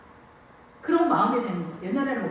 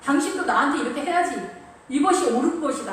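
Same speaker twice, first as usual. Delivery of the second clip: lightly acted boastful husband, pushed a bit higher; self-important husband; 3 semitones higher, 4 dB louder than usual. Husband boasting to his wife and children, mock self-important. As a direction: puff yourself up as a mock king of the house. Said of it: "남편이 얘기하는 거야".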